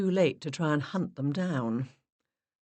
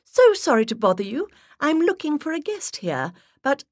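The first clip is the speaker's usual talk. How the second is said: put-on higher and louder, stronger accent; high breathy put-on voice; 11 semitones higher, 5 dB louder than usual. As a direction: voice raised an octave, stronger English accent. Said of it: "I raised my voice an octave and increased the strength of my accent".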